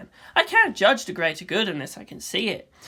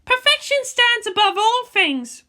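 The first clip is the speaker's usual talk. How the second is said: put-on higher, slow girl's voice repeating as if on her own; Asuka, entranced; 5 dB louder than usual. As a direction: let the words come out slowly as if spellbound. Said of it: "felt her lips moving as if on their own".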